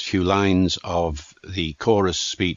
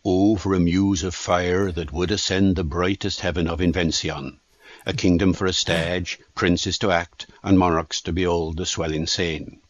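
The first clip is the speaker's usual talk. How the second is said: Original Pronunciation Shakespeare accent, rolled r's and open vowels; Shakespearean pronunciation. Shown as a demonstration. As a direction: recite it in Elizabethan Shakespearean accent. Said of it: "in Shakespearean pronunciation".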